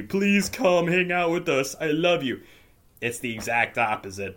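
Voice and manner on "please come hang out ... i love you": mock begging. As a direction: beg them to come, hammed up. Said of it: "I'd be begging you".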